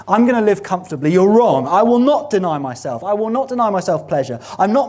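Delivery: hammed-up indignant refusal; defiant retort. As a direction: throw it back at Jesus like a stubborn child. Voicing the self-willed believer.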